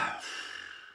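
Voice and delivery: pointed throat clearing; demo throat clear. Shown as a demonstration. Trainer demoing an irritated passenger's pointed throat clear. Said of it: "That sort of thing".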